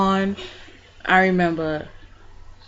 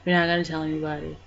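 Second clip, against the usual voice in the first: muttering to himself; 2 semitones lower, 7 dB quieter, faster than usual. Retold or imitated. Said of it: "saying to myself".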